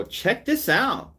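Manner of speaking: high, slow hyped "check this out"; mocking a reaction streamer hyping a clip; reaction youtuber voice. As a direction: play the hype host presenting a clip. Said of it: "and I go".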